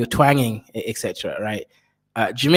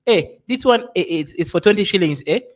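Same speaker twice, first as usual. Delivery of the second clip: haggling push; 5 semitones higher than usual. Shown as a demonstration. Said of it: "You say".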